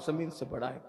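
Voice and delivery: low, soft admission; subdued confession. Retold or imitated. Sinner answers his master, low subdued confession. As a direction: drop the voice and admit it.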